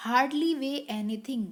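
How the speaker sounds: drawn-out, deliberate reading; slow read-aloud. Shown as a demonstration. Teacher reading the last example aloud, slowly. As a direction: stretch each word for the class. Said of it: "last वाला है".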